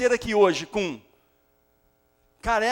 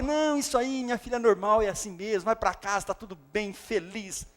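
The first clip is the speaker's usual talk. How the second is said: doctor reassuring; 4 dB quieter than usual. Acted. Doctor reassures tired mother.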